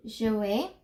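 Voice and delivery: "Je vais" said apart, rising at the end; pronunciation model. Shown as a demonstration. Teacher showing how you pronounce it, set apart. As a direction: set "Je vais" out as its own piece, lifting the end. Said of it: "the way you pronounce it".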